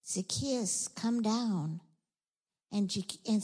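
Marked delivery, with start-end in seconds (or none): 0.1-1.8 measured, understated summons; gentle call. Acted. Jesus reaching the tax collector's heart, gently calling.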